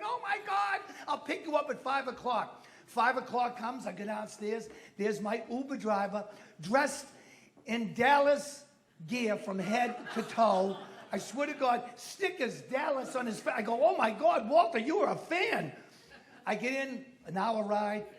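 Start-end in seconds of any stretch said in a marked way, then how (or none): 0.0-2.6 mock excited yell, starting high. Uber driver accepting a game invitation, retold excited yelling. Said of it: "He's yelling and screaming". 13.8-15.7 louder, mock-astonished outburst; amazed exclamation. Comic greeting his driver dressed in Dallas gear, amazed.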